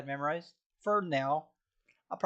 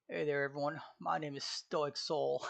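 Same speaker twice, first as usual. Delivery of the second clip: not my normal voice; 4 dB quieter than usual. Shown as a demonstration. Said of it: "That's still not my, like, um, n-, normal voice".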